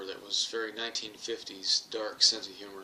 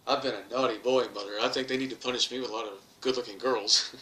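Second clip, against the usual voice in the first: mock confession; 4 dB louder than usual. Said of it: "my comeback was".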